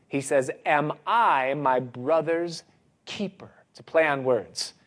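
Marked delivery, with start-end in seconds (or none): 0.6-3.5 slow retort, a touch of a jab; lightly jab with a slow question; jabbing question. Acted. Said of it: "asks a question with a jab".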